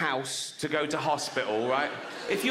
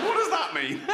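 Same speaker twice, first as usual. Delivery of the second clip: patient asking, laughing; 12 semitones higher, 3 dB louder than usual. Acted. Patient voiced, high, laughing.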